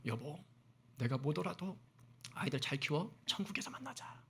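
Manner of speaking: soft farewell to a wife, fading away; retold last words. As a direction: quote a husband's parting words very softly. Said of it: "유언 같은 말을 남겼대요". (유언처럼 나직이 전하는 작별 인사)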